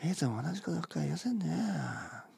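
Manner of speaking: casual slurred native grumble; native mumble. Shown as a demonstration. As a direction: grumble it loosely under your breath. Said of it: "こんな感じね。".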